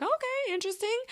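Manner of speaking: high-pitched, doubtful surprise; politely taken aback. Retold or imitated. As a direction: react with a high, hesitant okay. Reacting to unexpected looks.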